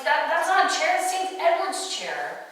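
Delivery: high, loud, stammered start; indignant protest. Retold or imitated. Birdie explains the chair to smug Lionel, indignant. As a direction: protest hotly, stretching out the end.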